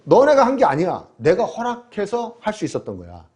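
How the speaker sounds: preacher voicing God's firm rebuke; God rebuking. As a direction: rebuke the proud nation firmly. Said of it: "하나님은 이렇게 말씀하시는 거예요".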